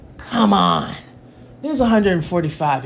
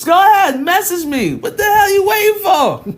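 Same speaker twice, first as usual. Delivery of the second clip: high, loud half-laughing shout; laughing yell at phone; 12 semitones higher, 4 dB louder than usual. Real, not acted. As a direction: yell playfully at the chat through a laugh. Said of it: "Why am I yelling at my phone".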